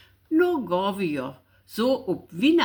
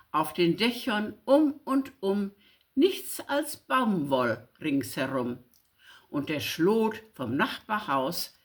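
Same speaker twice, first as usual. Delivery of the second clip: lively, rhythmic verse reading with delight; poem recitation. Acted. Reading Friedrich Güll's snow poem aloud, lively recitation. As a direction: read it with wonder at the snow.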